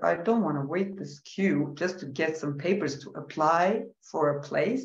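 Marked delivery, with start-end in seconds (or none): none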